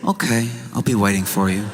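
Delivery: understated, unbothered acted reply; calm. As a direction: answer evenly, in no hurry. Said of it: "then calmly telling".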